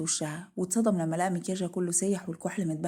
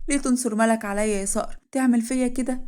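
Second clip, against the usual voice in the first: wounded reproach; 4 semitones higher, 5 dB louder than usual. Acted. Wife reproaches husband over rival.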